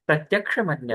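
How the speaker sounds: प्रत्यक्ष मन्यत with क्ष as क joined to the retroflex ष, not च or छ; correct pronunciation demo. Shown as a demonstration. Teacher shows students the right pronunciation of the sutra. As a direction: show exactly how प्रत्यक्ष should sound, with a clear क्ष. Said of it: "इस प्रकार से इसका उच्चारण करना चाहिए".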